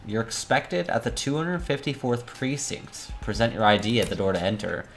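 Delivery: formal, orderly notice-reading voice; official message read-out. A narrator's reading. Reads out the official phone message.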